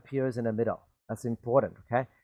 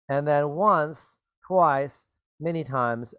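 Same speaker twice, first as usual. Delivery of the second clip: slow listing; slower than usual. Shown as a demonstration. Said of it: "appears in the back".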